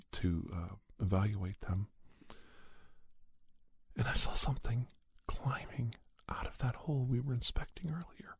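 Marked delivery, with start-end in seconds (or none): 3.9-8.3 breathy whispered reveal, voice dropping away; hushed whisper. A narrator's reading. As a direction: whisper it as if it might hear you. Eerie reveal of the creature.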